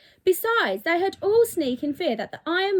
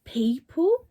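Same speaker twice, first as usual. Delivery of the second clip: angry farmers; 4 semitones higher than usual. Acted. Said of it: "the furious farmers began to shout".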